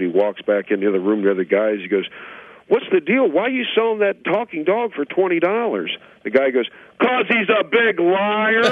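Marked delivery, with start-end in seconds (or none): 2.7-6.0 high, incredulous questioning. Acted. Baffled buyer asking why the dog is for sale, high incredulity. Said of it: "The guy can't believe it". 7.0-8.6 high, drawn-out acted scorn; scornful punchline. Seller exposing his boastful dog, high slow scorn.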